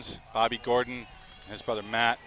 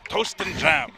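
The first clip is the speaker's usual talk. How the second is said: hammed-up British accent, higher and louder; mock British accent; 6 semitones higher, 5 dB louder, slower than usual. Co-commentator repeats the quote, mock British accent. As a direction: toast said the British way, long and rounded. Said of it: "But he would say toast, right?".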